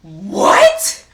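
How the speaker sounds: loud, rising shout of shock; flabbergasted yell; stunned disbelief. Real, not acted. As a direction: blurt it loudly as a rising question. Stunned reaction to the story.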